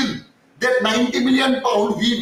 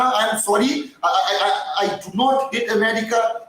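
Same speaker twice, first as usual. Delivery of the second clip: ordinary talk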